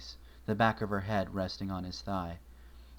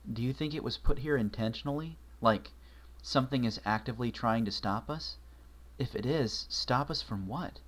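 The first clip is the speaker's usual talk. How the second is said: lightly voiced young mare; 3 semitones higher than usual. Twilight telling Marshall about the creature, lightly voiced and uneasy.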